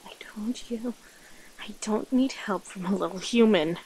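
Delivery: irritated creature straining for control; hungry predator character. Acted. Sending away the human who followed you hunting, irritated and strained.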